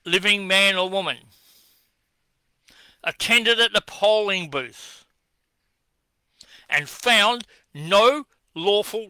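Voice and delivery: slow, deliberate dictation, word by word; spelled out slowly. Shown as a demonstration. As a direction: spell each part out as if to a slow listener. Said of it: "I'll spell it out slowly".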